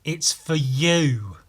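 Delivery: telling Sam the gift is his, slow and pointed; slow deadpan emphasis. Retold or imitated. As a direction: drag it out as if to a dimwit. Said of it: "I looked at him and went".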